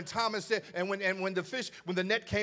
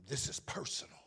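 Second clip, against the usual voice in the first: soft whispered aside; 4 semitones lower, 11 dB quieter than usual. Acted. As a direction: drop to a hushed whisper. Preacher stresses intimacy.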